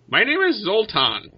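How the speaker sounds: high-pitched creature voice; leader bird creature. Acted. Largest bird introduces itself to the adventurers, high creature voice. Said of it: "the largest one says".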